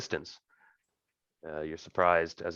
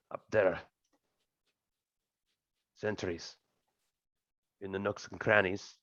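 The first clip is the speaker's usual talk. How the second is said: soft, terse aside with long pauses; hushed, piecemeal scouting report; Cannon's discreet warning; 6 dB quieter than usual. Acted. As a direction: point out hidden watchers discreetly. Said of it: "but she just said".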